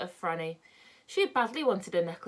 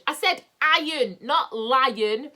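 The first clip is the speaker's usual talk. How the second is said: louder, higher, sharp correction; snappy; 6 semitones higher, 8 dB louder, much slower than usual. Acted. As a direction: snap back at him. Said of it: "quite snappily".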